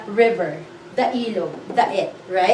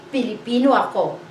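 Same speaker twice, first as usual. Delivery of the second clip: Pilipino ako, said a little quicker with the stress on Pilipino; model sentence; faster than usual. Shown as a demonstration. Teacher gives the right Tagalog order, Pilipino said first. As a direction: lead with Pilipino, then a light ako. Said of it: "but we say".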